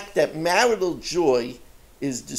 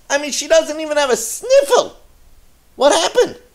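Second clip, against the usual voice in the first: laughing; 11 semitones higher, 6 dB louder than usual. Retold or imitated. Miser complaining, laughing.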